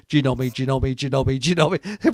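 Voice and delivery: lightly imitated radio chant, steady rhythm; repeated call sign. Soldiers just saying Genomi on the radio, imitated chant. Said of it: "They just said".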